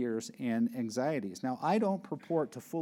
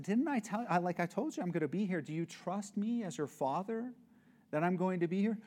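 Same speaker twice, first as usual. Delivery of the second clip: put-on higher, coaxing father to a scared child; a dad pleading with his daughter on a bike, higher and coaxing; gentle exasperated dad; 4 semitones higher, 3 dB quieter, faster than usual. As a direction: talk a frightened girl into trusting you. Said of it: "and I said".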